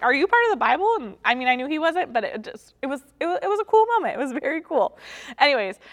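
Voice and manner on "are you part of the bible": higher and louder, gushing; childlike excitement. Retold or imitated. Pastor retelling her middle-school self finding Matthew, giddy. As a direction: squeal it like a delighted kid. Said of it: "I was like".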